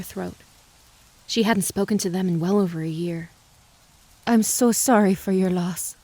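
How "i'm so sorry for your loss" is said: gentle Swedish accent, lightly voiced; a hint of a Swedish lilt, condoling; thick Swedish accent. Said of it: "in her thick Swedish accent".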